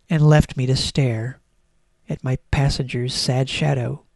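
mock-tragic, heavily emphasised read-aloud; melodramatic diary reading. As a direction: lay on the sorrow like a tragic final entry. Reads final diary entry, mock tragic.

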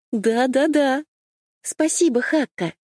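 put-on high, chirpy little girl voice; chirping. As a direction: chirp it happily, bouncing with joy. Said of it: "прощебетала Саи".

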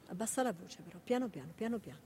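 quiet urging to read softly; hushing. Acted. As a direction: keep it down gently. Hushing him while he reads.

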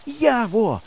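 high, gasped call; nearly breathless. A narrator's reading. Exhausted boy appeals to his friend, nearly breathless. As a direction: gasp out the name, worn out. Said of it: "сказав я, майже задихаючись".

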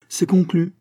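high-pitched triumphant cry; exclaiming. A narrator's reading. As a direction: cry it out to seal the deal. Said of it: "s'écria Claude". (s'écrier d'une voix haute)

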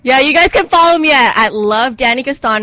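loud, overdriven announcement; shouting into the mic. Real, not acted. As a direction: shout the handle out. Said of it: "why are you shouting on the microphone".

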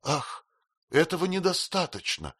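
high pitched tearful cry; tearful outcry. Acted. Girl crying out to her fiancé, high tearful outcry. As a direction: cry it out in despair. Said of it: "закричала Эмми".

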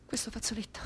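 soft whisper. Acted. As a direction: whisper it to yourself. Intimate unvoiced line. (sussurro dolce)

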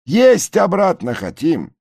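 high loud yells; shouting back. A narrator's reading. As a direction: holler it. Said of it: "кричат". (громкий крик)

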